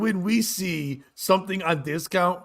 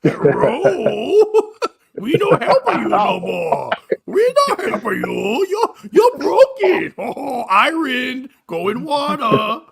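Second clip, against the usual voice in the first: put-on high, loud caricatured Chinese accent, drawn out; hammed-up Chinese accent, slow stretched words; mock Chinese accent; 8 semitones higher, 5 dB louder, much slower than usual. Host playing China refusing to help, exaggerated mock Chinese accent. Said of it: "I wasn't doing a voice".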